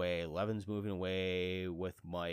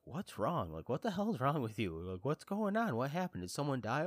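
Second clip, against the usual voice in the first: imitating a worried wife, slightly raised pitch; mock alarm; 5 semitones higher than usual. Wife at work asking her upset husband, mock alarm. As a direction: fire off mildly alarmed questions. Wife's alarmed questions on the phone.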